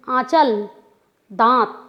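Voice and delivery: आंचल, दांत with light nasal vowels, short; nasal vowel demo. Shown as a demonstration. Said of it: "उच्चारण करके देखिए".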